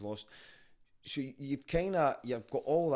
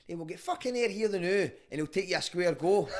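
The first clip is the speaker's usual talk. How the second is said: loud, high hard-man dad; tough dad; 8 semitones higher, 7 dB louder than usual. Retold or imitated. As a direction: lay down the challenge like a tough dad. Dad sets up fight.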